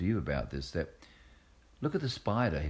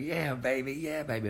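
high "yeah, baby" lightly voiced; a hint of the groovy spy; Austin Powers impression; 7 semitones higher than usual. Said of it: "I was doing Austin Powers".

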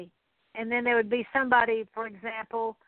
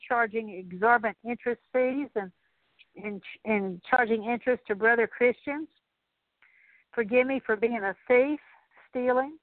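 a preacher leading a confession prayer. Acted. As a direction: pray it through, one plea after another. Long spoken confession prayer.

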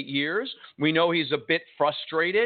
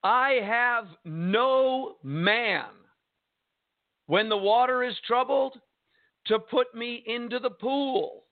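slow, raised-pitch plea of a frustrated man; 4 semitones higher, slower than usual. Acted. Impotent man answers Jesus at the pool, frustrated. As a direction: plead slowly with pent-up frustration. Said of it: "You could almost hear the frustration in this man's voice".

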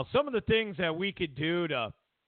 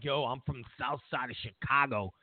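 tough guy Obama; 6 semitones lower than usual. Retold or imitated. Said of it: "you know, like".

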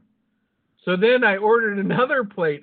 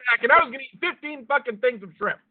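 laughing while talking; 7 semitones higher than usual. Real, not acted. Laughing while retelling the story.

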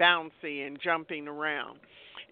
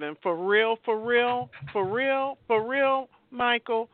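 rising impassioned emphasis; 7 semitones higher than usual. Real, not acted. Building emphatic appeal on love.

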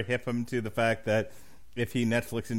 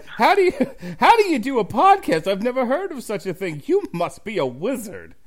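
high, wide-eyed mock wonder; mock awe; 10 semitones higher, 6 dB louder than usual. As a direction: play the awestruck layman. Mocking awed listener.

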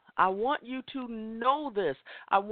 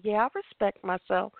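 casual, offhand "Yeah, I respect myself." with no weight on "I"; a hollow, going-through-the-motions yes; brushed-off affirmation. Shown as a demonstration. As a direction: toss the line off as if to make them stop asking. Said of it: "people mask that and just to keep us to shut up".

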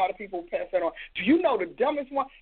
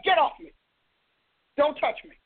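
God's rebuke; 2 semitones higher than usual. Acted. Preacher voicing God shoving Uzzah away, a raised sharp rebuke. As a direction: bark it like holiness pushing him away.

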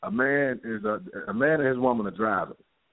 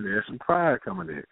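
normal talking voice

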